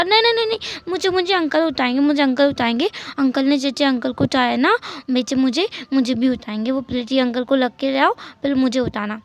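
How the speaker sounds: put-on a child's whiny begging. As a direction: beg like a small child wanting to be carried. Child refusing, begging uncle.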